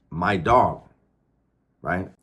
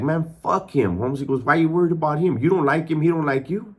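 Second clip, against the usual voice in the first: higher-pitched, retold brush-off; imitating a friend's defensive dismissal; dismissive retort; 6 semitones higher than usual. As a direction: wave away the worry with raised pitch.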